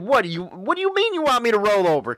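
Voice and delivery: incredulous question. Retold or imitated. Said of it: "I said".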